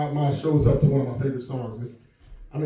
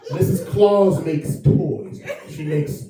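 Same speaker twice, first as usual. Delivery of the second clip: put-on quoting the girl; 2 semitones lower, slower than usual. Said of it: "She said".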